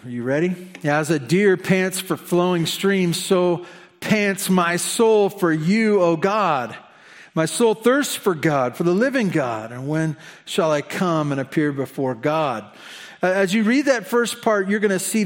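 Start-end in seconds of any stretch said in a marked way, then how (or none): 0.9-12.6 scripture reading. Acted. Pastor reads Psalm to congregation, solemn. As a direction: read the verses with reverent weight.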